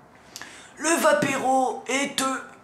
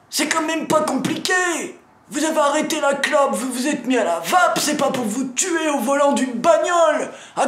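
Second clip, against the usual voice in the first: loud, fast, higher scolding tirade; angry rant; 4 semitones higher, 4 dB louder than usual. Acted. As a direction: tear into them, swearing. Drink-driving rant at viewers.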